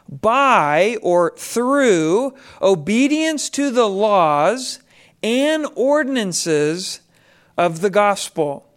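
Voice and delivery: slow, deliberate reread with pauses; reading in disbelief. Shown as a demonstration. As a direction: lean on each phrase slowly. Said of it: "Let me read that again".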